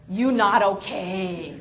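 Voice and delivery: put-on slow, flat Vietnamese-accented verdict. Cab driver seeing through her, Vietnamese accent. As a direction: state it calmly in a Vietnamese accent. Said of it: "And he says".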